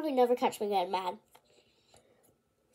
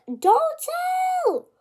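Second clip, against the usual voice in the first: high, loud hissed-out don't tell; mock warning; 4 dB louder than usual. The boy running up, begging loudly.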